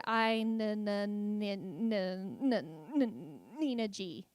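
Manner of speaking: blocked on the first sound of the name; stuttering. Retold or imitated. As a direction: stutter hard on the N before the name comes out. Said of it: "when you stutter".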